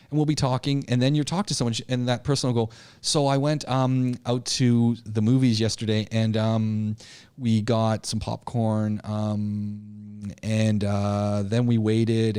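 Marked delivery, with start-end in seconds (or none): 3.0-12.4 rambling with um and uh between phrases; hesitant and padded with fillers; full of fillers. Shown as a demonstration. Speaker imitating a person who fills every gap with um. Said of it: "all they're doing is filling the space".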